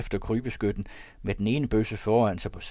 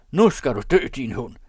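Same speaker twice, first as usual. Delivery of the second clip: threat; 5 semitones higher, 9 dB louder than usual. A narrator's reading. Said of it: "med de trøstelige ord".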